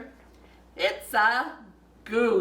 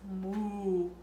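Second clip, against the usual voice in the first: soft moo; 3 semitones lower, 6 dB quieter than usual. Pretend. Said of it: "maybe the horse says".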